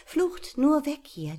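high, urgent frightened mouse; frightened little mouse voice; panicked thought. Acted. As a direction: think it in a flash of panic. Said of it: "dachte er".

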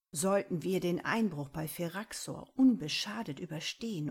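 "Sollten" punched loud at the start; stress on Sollten. Acted. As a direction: lean hard on "Sollten". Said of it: "die Betonung liegt dabei eindeutig auf sollten". (Betonung auf "Sollten")

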